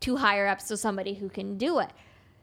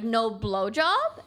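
suggestive retold question; much slower than usual. Retelling the man's crude proposition.

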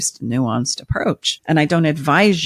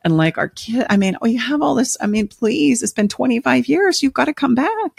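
begging, climbing much higher in pitch toward the end; over-dramatized pleading; 4 semitones higher than usual. Acted. Spouse begging an absent partner to come back, melodramatic pleading. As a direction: ham up a desperate plea, rising to a near wail. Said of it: "I'm over-dramatizing".

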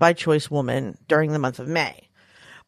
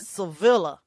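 put-on Southern accent; slower than usual. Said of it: "It's very Southern".

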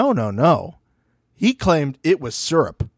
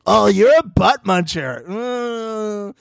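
slow, higher playground taunt; lightly voiced schoolkid; mock teenage taunt; 5 semitones higher, much slower than usual. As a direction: tease like a twelve-year-old. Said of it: "like, twelve or thirteen".

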